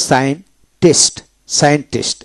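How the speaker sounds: "সায়েন্টিস্ট" as a teacher's model word; pronunciation demo. Shown as a demonstration. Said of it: "এভাবে হবে".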